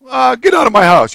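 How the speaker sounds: mock dismissal, high and loud; foolish wife. Wife throwing out her doting husband, mock dismissal. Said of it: "a blithering idiot if she said".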